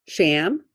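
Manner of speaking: "sham" set apart as one syllable; single syllable. Shown as a demonstration. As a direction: say "sham" alone, carefully, tone lifting at the end. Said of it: "First syllable".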